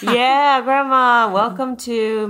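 high, loud happy greeting; excited. Real, not acted. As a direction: cheer her on. Greeting grandma on the podcast.

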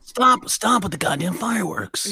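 mock Southern belle. Co-host joins the fireworks complaint as a Southern belle. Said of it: "making her a Southern Belle".

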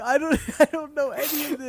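high, loud, laughing denial; squeaky playing-dumb protest; mock panicked denial. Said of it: "I'm like".

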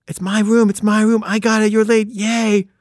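a hint of high sing-song gloating; lightly voiced smug coworker; mock gloating. Suzanne gloating over keeping the editing room, mild mock sing-song. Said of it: "she's like".

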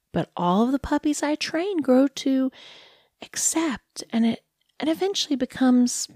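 a lightly voiced cooing dog owner; condescending dog lady. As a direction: talk down to him like a pet, all sweetness.

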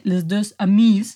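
slow put-on French accent. Shown as a demonstration. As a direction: say it like a bad French imitation. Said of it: "no soy francesa, como podéis ver".

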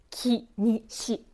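"きにし" one sound at a time; slow, deliberate "きにし", syllables set apart; careful practice. Shown as a demonstration. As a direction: test each sound of "きにし" slowly and separately. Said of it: "の部分が言いづらい".

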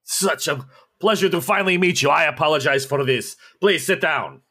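lightly voiced hospitable Russian host; Russian official greeting. Russian official welcoming the party warmly. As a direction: welcome the guests with oily politeness.

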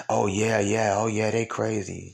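run-on mock murmurs of agreement; imitated agreeing girlfriend. Host plays the friend agreeing with gossip, mock knowing agreement.

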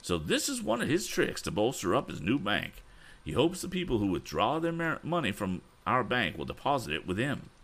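put-on high, worked-up old gentleman; indignant Mr. Damon. A narrator's reading. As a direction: fume about the scoundrel, pitched high. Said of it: "cried Mister Damon".

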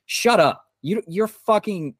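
high, loud burst of real anger; furious shout at online haters; angry outburst. Real, not acted. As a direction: snap at the trolls. Angry rant at online trolls.

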